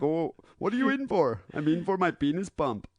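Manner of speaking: bad Arabic accent; hammy fake Arabic accent. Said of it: "the worst Arabic accent ever".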